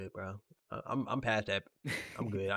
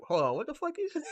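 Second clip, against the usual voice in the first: incredulous outrage. Retold or imitated. Offended man returns, incredulous.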